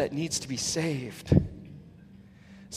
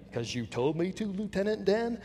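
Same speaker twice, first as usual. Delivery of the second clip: simple-minded reply; 5 dB quieter than usual. Retold or imitated. Innocent reply to boss.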